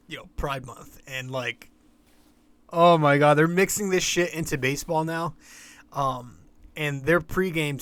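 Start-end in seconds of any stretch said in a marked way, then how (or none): 2.7-5.3 outraged exclamation. Real, not acted. Outraged reaction to pregame.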